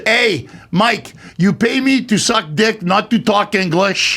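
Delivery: put-on French-accented comeback, slowing at the end; indignant retort in a light French accent. Actress answers back to director Mike, French accent. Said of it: "because of her French accent".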